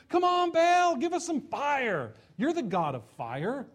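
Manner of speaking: high, loud pleading yell; frantic shouting. Acted. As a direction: beg the idol at the top of your lungs. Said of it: "shouting on the top of their lungs".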